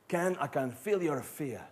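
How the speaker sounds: slow, imitated French accent. Blind French climber to Ken at the rock face, French accent. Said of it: "pardon the accent".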